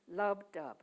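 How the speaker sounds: "lub dub" as a two-beat pulse; heartbeat rhythm. Shown as a demonstration. Poet showing the iambic beat, heartbeat rhythm. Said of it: "is the beat of the heartbeat".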